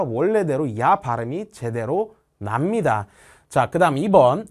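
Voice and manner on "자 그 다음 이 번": ordinary talk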